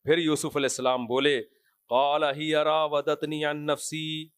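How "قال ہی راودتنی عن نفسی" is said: slow measured Quran chant; slow Quranic recitation. Acted. Preacher quoting Yusuf's words in slow Quranic chant. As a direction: recite the verse slowly, chanting each word.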